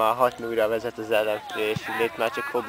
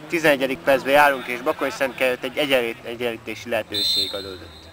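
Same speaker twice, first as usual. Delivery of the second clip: sports commentary. Acted. Mock live match commentary.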